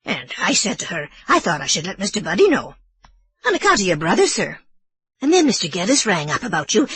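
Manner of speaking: put-on old Irish housekeeper explaining herself nervously; Mrs Leahy.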